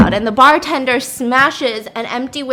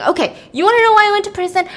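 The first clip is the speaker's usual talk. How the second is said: exasperated outburst; 9 semitones higher, 5 dB louder, faster than usual. Retold or imitated. Groundskeeper snaps back.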